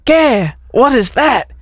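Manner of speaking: slow, lightly faked Mexican accent with a laugh; a hint of Mexican, laughing at the end.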